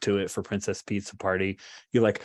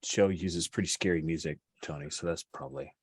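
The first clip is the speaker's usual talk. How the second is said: softly trailing, nervous explanation; 3 semitones lower, 4 dB quieter than usual. Acted. Blue Orchid explains away the scary show, nervously. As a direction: start out hesitant, then shrink into a much quieter voice. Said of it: "Blue, Blue Orchid nervously says".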